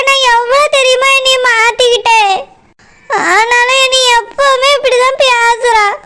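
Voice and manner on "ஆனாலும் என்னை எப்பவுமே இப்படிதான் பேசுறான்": tearful, wounded complaint; crying. Acted. Daughter complains of husband, crying. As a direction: cry through it. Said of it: "அழாதம்மா".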